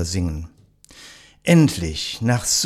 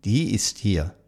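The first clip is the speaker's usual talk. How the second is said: poem recital. Acted. Host reciting a poem to nursing home residents, measured recital. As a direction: recite it like a classic holiday poem for listeners.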